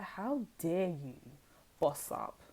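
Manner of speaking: acted outrage, rising at the challenge; mock indignation. Voicing angry men questioning who let you boss up, indignant. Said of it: "They're mad. They're like".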